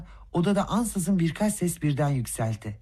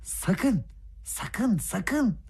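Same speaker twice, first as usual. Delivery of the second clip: frightened whisper; 6 semitones higher, much slower than usual. Acted. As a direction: hiss a warning in panic. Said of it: "çok korkmuş gibi tekrar fısıldadı". (korkuyla, alçak sesle fısıltı)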